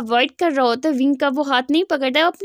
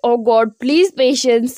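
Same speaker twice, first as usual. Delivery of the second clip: slow, drawn-out plea for patience; begging God for patience, slowly; exasperated brother praying under strain, slow plea; exasperated prayer; 3 semitones lower, much slower than usual. Retold or imitated. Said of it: "आंखें बंद करके ज़ोर की सांस लेते".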